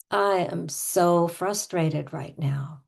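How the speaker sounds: slow, exasperated sigh into words; sighing, hammed-up exasperation; pretend frustration. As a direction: play up the frustration, drawn out. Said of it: "I'm gonna start with pretending".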